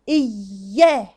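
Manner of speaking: "إياه" broken between the two y sounds; cut sound. Shown as a demonstration. Teacher shows the wrong split, sound chopped in two. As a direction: stop dead after "iy", then "yaa". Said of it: "عملت لها قطع الصوت".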